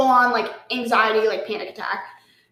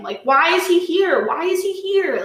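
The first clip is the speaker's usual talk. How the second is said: higher-pitched, insistent disbelief; retold dismay; 5 semitones higher than usual. Retelling the moment the umpire confirmed her ex, dismayed. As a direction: plead for an answer, pitch raised.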